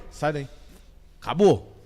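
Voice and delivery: "Sai daí" said once, short and final; "Sai daí" as a single curt command; one firm order. Shown as a demonstration. Mother showing how she orders her child only once, curt. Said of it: "não é três vezes não, é uma vez".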